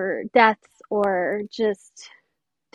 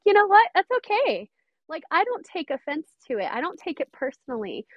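reassuring; 6 semitones higher than usual. Retold or imitated. Mentor to apologetic stylist, reassuring. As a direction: wave off the apology lightly, starting high and easing down.

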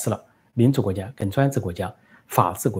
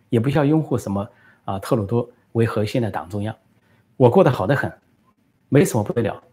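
impatient defiance; 2 semitones higher than usual. Retold or imitated. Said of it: "这孟晚舟不耐烦地说".

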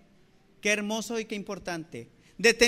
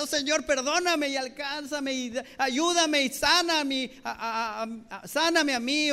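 higher-pitched acted plea to God; grito de súplica imitado; 4 semitones higher than usual. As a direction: cry out for help as a praying believer, without full shouting. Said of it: "que gente gritara y decía". (súplica actuada, aguda y clamorosa)

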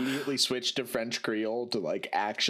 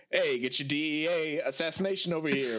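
hollering barker calling the crowd; carnival barker; 3 semitones higher than usual. Retold or imitated. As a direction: pull in the crowd like a fairground barker. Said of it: "a carnival barker".

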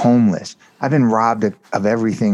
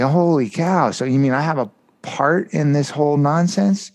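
amazed realisation; 6 semitones higher than usual. Retold or imitated. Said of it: "I'm like".

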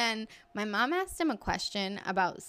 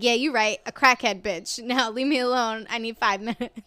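louder mock-defiant comeback; loud retort; 5 dB louder than usual. Man caught in the basement, loud retort. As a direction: imitate a man shooing someone off. Acted retort in retold quarrel.

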